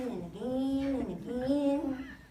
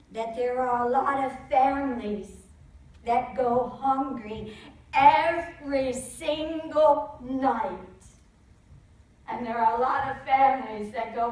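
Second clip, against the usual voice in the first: moved emphasis; 7 dB louder, slower than usual. Real, not acted. Moved realization, slowed emphasis.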